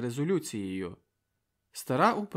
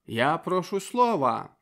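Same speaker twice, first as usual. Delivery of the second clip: slow, dogged demand; stubborn insistence; 5 semitones higher, 5 dB louder than usual. A narrator's reading. Yon insisting again to the chairman, stubborn. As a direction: press it slowly and stubbornly. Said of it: "вперто домагався Йон".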